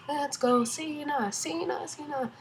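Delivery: mock cheering. Fan retelling how she and Monica cheered him on, mock cheering. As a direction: re-enact a crowd cheer without the volume. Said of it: "me and Monica are cheering".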